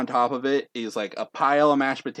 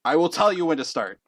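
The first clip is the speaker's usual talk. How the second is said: syllable by syllable; 4 semitones higher than usual. Acted. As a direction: lay down the rule one word at a time. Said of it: "with each syllable".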